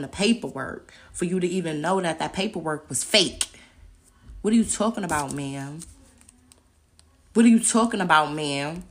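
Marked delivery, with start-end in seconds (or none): 4.4-5.8 louder, sharp challenge; indignant demand. Real, not acted. Confronting the lawyer in court, indignant. 7.3-8.8 much louder, fierce repeat; angry shout. Real, not acted. Confronting the lawyer in court, shouting.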